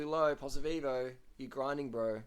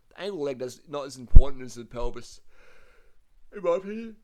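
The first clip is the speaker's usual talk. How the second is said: emphatic; 4 semitones higher, 18 dB louder than usual. Real, not acted. Insisting on his riding opinion.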